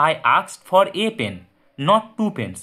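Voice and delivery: slow, with a set apart as "a" said like "ei"; stress on a. Shown as a demonstration. Teacher to students, slow stress on "a" pen. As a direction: stress the a in "a pen" against two, slowly. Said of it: "যখন কোনো কিছু জোর দিয়ে বোঝায়".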